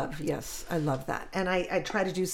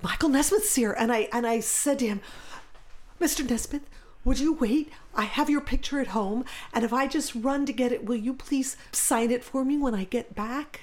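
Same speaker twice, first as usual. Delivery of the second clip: put-on higher, excited young boy asking politely; eager kid voice; 5 semitones higher than usual. Boy begs a musician to wait, eager and high. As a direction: play your eager childhood self, pitched up. Boy asks star for autograph.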